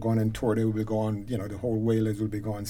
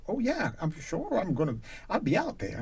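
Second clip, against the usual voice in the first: higher, lightly voiced Cockney caller; a hint of eager London English; imitated Cockney accent; 7 semitones higher, 3 dB quieter than usual. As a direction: mimic her Cockney reply lightly. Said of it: "this is a Cockney accent".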